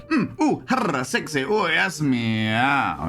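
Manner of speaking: mock sexy purr.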